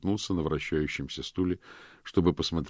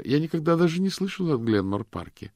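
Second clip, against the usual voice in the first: a much higher woman's voice, baffled; surprised woman; 11 semitones higher, 4 dB louder than usual. A narrator's reading. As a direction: she can't believe it's Boston. Miranda voiced on the phone.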